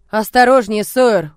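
loud, urgent warning. Acted. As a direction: warn him off sharply. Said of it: "предупредил Рент".

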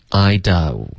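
"I do" (don't) with the mouth opened wide. Shown as a demonstration. Teacher modelling the vowel for a student, open mouth. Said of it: "嘴巴要张开".

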